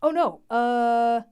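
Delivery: a sudden yelp of what the hell; startled confusion. Real, not acted. Reader confused by the quotes, startled high yelp.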